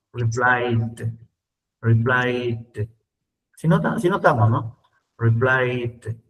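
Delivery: "replied" ending in a soft D. Shown as a demonstration. Teacher models the soft D in "replied". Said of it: "un sonido de una D suavita".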